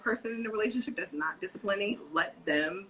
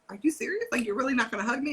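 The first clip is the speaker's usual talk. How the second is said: higher, quick and incredulous; lightly hammed-up shock; mock disbelief; 6 semitones higher, faster than usual. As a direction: act wounded in playful disbelief. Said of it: "And I'd be like".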